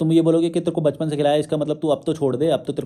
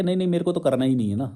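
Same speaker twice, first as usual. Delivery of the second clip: mocking excuse; faster than usual. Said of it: "वो बोलता है".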